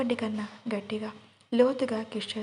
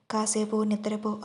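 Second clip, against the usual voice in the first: ordinary delivery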